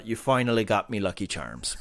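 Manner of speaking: low mock leprechaun taunt; lightly voiced leprechaun villain. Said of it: "pot of gold".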